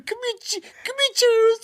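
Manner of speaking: old buddy mimicking the sergeant, high and mocking; sergeant impression. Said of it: "You remember him?".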